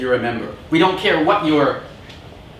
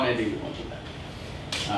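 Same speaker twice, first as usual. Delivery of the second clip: much softer, slow, half-whispered retreat; meek backing down; 6 semitones lower, 14 dB quieter, much slower than usual. Retold or imitated. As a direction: mumble it like a sheepish climbdown. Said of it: "and he said".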